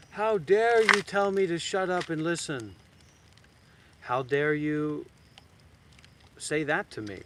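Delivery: high, loud offended outburst; mock indignation. Student offended at being told to shut up, mock indignant outburst. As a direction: play the ego taking offense.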